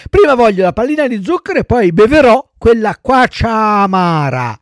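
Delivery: put-on high-pitched, insistent puppet boy; wheedling child puppet. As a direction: bargain like a stubborn little boy. Voices Pinocchio bargaining. (burattino capriccioso, voce acuta)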